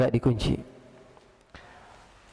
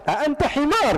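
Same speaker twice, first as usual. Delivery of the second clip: angry Arabic insult; 11 semitones higher than usual. Retold or imitated.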